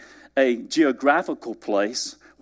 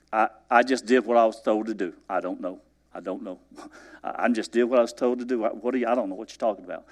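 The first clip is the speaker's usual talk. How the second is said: baffled shrug; 4 semitones lower, 3 dB quieter, faster than usual. Acted. Elijah baffled, laughing.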